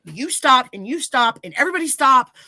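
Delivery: a daughter yelling at her dad and husband to stop; breaking up a fight. Retold or imitated. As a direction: shout them apart, one by one. Stepping between two men fighting.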